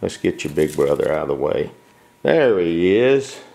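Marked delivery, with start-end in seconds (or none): 2.2-3.4 high, slow sing-song pet talk; cooing. Real, not acted. Owner cooing at her puppy, high and slow. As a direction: coo it like greeting a puppy.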